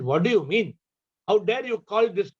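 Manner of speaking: mildly indignant retold king; upset king. King rebuking the Zen master, mildly indignant. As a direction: play a king taking mild offence. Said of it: "The king got upset".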